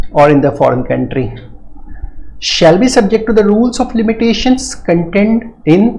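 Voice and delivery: drawn-out reading of the legal clause, very slow; slow statute reading. Shown as a demonstration. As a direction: dictate the clause slowly to the class. Teacher rereads subsection two.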